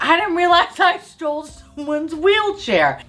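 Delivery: very high, drawn-out mock panic through laughter; retold panic. Grandma confessing to the wrong wheelchair, mock panic. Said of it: "now the woman's panicking".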